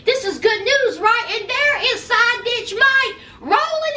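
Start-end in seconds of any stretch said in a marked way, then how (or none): 0.1-1.2 imitating hairstylist. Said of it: "the hairstylist is like".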